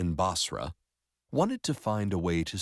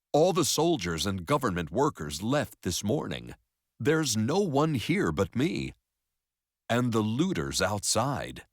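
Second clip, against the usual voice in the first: higher, louder phone report; urgent custodian raising the pitch; alarmed library custodian; 5 semitones higher, 4 dB louder than usual. Acted. Custodian reporting to the librarian by phone, alarmed.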